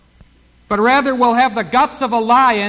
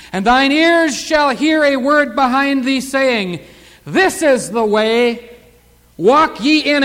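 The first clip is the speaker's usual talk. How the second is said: drawn-out, emphatic scripture reading; slow emphatic reading; 3 semitones higher, 4 dB louder, slower than usual. Acted. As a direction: lean on each word of the verse. Preacher reads verse with emphasis.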